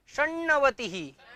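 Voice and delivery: षण्णवतिः with a doubled retroflex ण्ण held long; shown pronunciation. Shown as a demonstration. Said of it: "इसका जो उच्चारण होगा".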